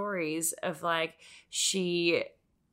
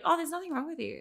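much higher, dismissive mock doctor; 10 semitones higher, faster than usual. Patient mimicking ER doctors, high dismissive mock. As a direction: sing it out like a patronizing nurse.

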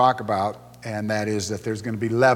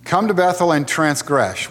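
mock invitation, a touch higher and louder; sarcastic; 3 semitones higher, 4 dB louder than usual. God mockingly inviting Israel to sin, sarcastic. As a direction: tease them as if inviting them to sin. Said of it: "is saying this sarcastically".

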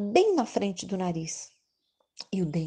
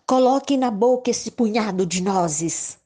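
squirrel voice; 4 semitones higher, 6 dB louder than usual. Acted. Squirrel family speaks.

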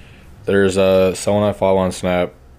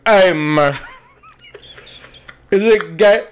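high, loud put-on voice, words left unfinished; blackout AR impression; 10 semitones higher, 3 dB louder, slower than usual. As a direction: squeeze it up high and chop the ends off. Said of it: "what I assume he'd sound like".

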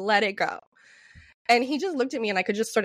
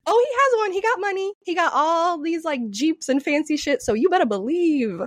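sassy; 4 semitones higher than usual. Retold or imitated. Sassy retold inner voice.

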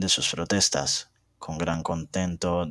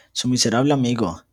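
louder, higher furious outburst; 5 semitones higher, 5 dB louder than usual. A narrator's reading. Elena furiously denouncing Heathcliff to Catalina, louder and higher. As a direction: spit it out in fury. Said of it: "exclamé furiosa".

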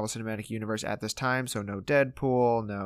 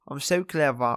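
playful mock Russian accent; 3 semitones higher than usual. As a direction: echo it in a cartoonish Russian accent. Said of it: "so my Russian accent there".

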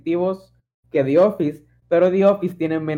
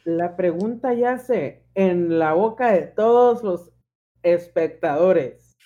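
dramatic announcer; much slower than usual. Acted. Host builds suspense.

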